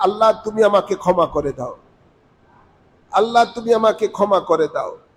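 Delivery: normal talking voice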